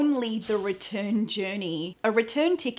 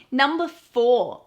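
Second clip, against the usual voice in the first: announcing the number; 3 semitones higher, 8 dB louder, slower than usual. Shown as a demonstration. List heading.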